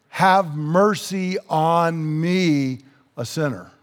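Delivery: slow, measured prayer, dropping at the end; slow plea. Acted. Tax collector praying for mercy, slow plea. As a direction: draw out the plea, then let it fall.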